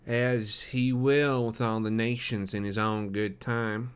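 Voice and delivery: nasal, slow pious drone. Acted. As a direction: speak it through the nose. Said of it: "said the other in a nasal voice".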